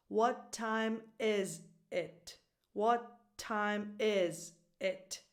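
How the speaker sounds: very slow, word-by-word "What time is it"; exaggerated music. Shown as a demonstration. Teacher drills learners, very slow exaggerated stress. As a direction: stretch "time" and "is", separate each word. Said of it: "I'm exaggerating the, the music".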